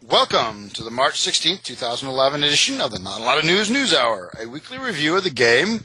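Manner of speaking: announcer voice. Acted. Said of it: "That was a pretty good announcer voice".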